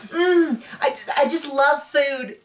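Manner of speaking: mock foodie gush. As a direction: overplay the foodie moan. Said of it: "she's like".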